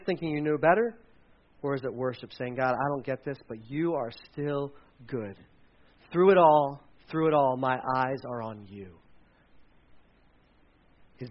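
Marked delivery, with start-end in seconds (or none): 2.6-8.9 quiet prayer. Acted. Preacher voices a prayer.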